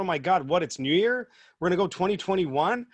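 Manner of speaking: loud, startled mock panic; mock surprise. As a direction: exclaim as if caught off guard. Imagined panic at new year.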